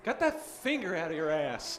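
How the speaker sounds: Texan cartoon character impression; King of the Hill accent. Comic performs King of the Hill on request, Texan scolding. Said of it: "do your best accent from King of the Hill".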